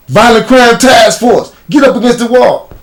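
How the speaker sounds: high, loud cop commands; police officer shouting orders; retold cop order. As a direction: bark it like a task force cop stopping someone.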